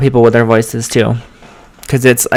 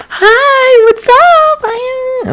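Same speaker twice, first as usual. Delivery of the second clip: very high, sing-song pet greeting; high-pitched pet voice; much slower than usual. Acted. Showing how one talks to pets, high-pitched pet voice. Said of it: "we use high-pitched voice".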